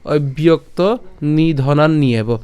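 slow, measured reading of the verse phrase; deliberate shloka delivery; joined recitation. Shown as a demonstration. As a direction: recite the phrase slowly as one line. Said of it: "যদি একসাথে যদি উচ্চারণ করি".

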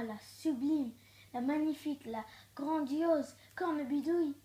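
loud, indignant witch rant; a vain witch fuming at the boy; hammed-up outraged witch. Witch voices her rage.

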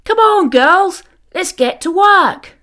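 high, loud bossy ewe voice; rally the flock cheerily; head ewe calls her herd to work; rallying sheep. A narrator's reading. Bertha rallies the herd.

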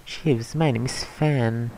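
slow loud introduction. Acted. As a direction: declare it slowly and loudly. Voicing game character intro.

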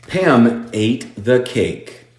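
Pam ate the cake, very slow, stretching the long a in ate; long vowel demo. Shown as a demonstration. Teacher stretches the long a sound for the students, very slowly. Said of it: "Sonido largo".

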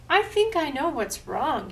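high, loud cawing crow. Acted. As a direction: caw it like a crow. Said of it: "he cawed".

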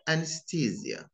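"anesthesia" said in the American way; American pronunciation. Shown as a demonstration. Teacher showing learners the American accent. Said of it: "notice the differences between them".

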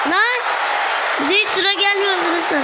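fast, high frustrated shout; excited complaint. Real, not acted. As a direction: blurt out your impatience quickly. Frustrated at waiting for turn.

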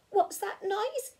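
high, slow little mouse squeak; squeaky mouse. Acted. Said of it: "he squeaked".

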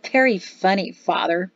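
sneering. Acted. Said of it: "Pato sneered".

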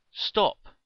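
sharp loud command to halt; commanding shout. Acted. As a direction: bark it out like a knight. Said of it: "she commanded".

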